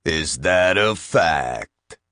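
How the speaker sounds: slow, dry sarcastic question. Acted. The machine doubting Bill, slow and sarcastic. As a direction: drag it out, doubting him. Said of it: "with what sounded suspiciously like sarcasm".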